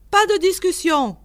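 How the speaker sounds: high, loud bellowed refusal; furious yelling. A narrator's reading. Sherman yells at the visitor to stop arguing, furious. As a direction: shut the argument down with a yell. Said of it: "hurla monsieur Sherman".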